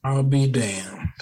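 slowly drawn-out exclamation; slow drawl. Shown as a demonstration. Veteran imitating the slow old man for the show, drawled. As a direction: stretch it out like the old-timer. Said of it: "he would have said it a lot slower than that".

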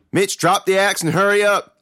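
loud, high urgent shout; urgent cry. A narrator's reading. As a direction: yell orders to a brother in danger. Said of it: "Lee cried".

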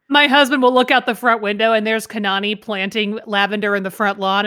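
ordinary talk, nothing marked

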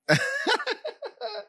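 high-pitched burst of laughter; squealing laugh. Real, not acted. Laughs at friend's remark.

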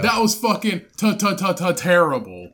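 teasing stammered terrible; mock stutter. Mocking the reader with a fake stammer. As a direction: stammer then land it. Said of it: "mocking stutter".

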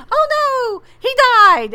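high, mock-stricken gasp of grief; hammed-up heartbroken oh no; retold dismay. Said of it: "I was like".

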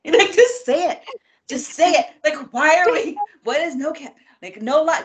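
worked up and fed up; livid. Real, not acted. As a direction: vent in emphatic, rising frustration. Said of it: "gets me livid".

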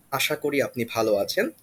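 "Asha kori apni bhalo achen" run together fast in native Bangla; Bangla phrase. Shown as a demonstration. Host showing how to ask an elder's health in Bangla, quick. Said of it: "ask about their health saying".

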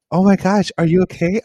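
high, loud startled "oh my gosh, are you okay"; alarmed mom. Retold or imitated. Mom finding him on the kitchen floor, alarmed and high.

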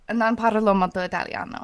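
non parlo molto italiano in Italian; speaking Italian. Shown as a demonstration. Host asked for an accent answers in Italian. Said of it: "she's a good Italian".

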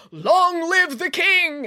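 slow, drawn-out cry; exclaimed. A narrator's reading. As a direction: hail the new king slowly. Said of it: "exclaimed a man in the crowd".

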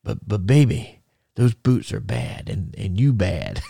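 lightly done Dusty Rhodes drawl, coaxing; a hint of Dusty, sweet-talking. Boot maker reassuring Dusty, lightly imitated coaxing. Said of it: "Dusty said".

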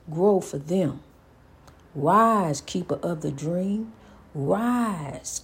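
slow, deliberate spoken-word delivery; measured and solemn, with long pauses between phrases; poetic tribute. Acted. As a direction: rise and fall like a slow eulogy.

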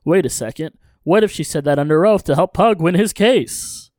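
brisk, animated story-recap read; recap narration. A narrator's reading. Host recapping an episode for listeners, recap narration.

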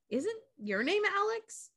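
high, soft mock-snooty question; bitchy cheerleader. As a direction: imitate a catty head cheerleader asking. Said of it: "super bitchy about it".

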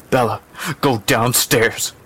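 slow, mildly insistent order; insistent mother. Acted. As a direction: send the child away firmly. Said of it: "the mother was insistent".

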